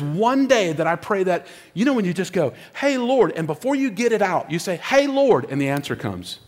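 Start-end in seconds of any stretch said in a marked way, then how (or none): 2.7-3.3 high, quick casual call; calling to God. Retold or imitated. Believer starting a quick prayer, high light call. 4.8-5.5 high, light hail; calling to God. Retold or imitated. Believer starting a quick prayer, high light call.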